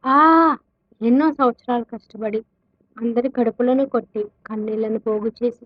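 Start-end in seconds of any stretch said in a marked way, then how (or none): 0.1-0.6 short, high, loud cry of frustration; frenzied scream. A narrator's reading. Keshav losing his fortune, a frustrated scream. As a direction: cry out "aah" like someone losing control. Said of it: "పిచ్చి పట్టినట్టుగా జుట్టు పీక్కుంటూ అరిచాడు".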